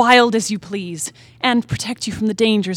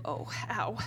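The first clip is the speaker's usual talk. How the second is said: pained whisper; 3 semitones lower, 17 dB quieter than usual. Acted. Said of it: "With another groan".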